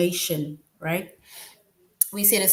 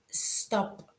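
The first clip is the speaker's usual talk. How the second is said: command; 3 semitones higher, 6 dB quieter than usual. Shown as a demonstration. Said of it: "Then that is a command".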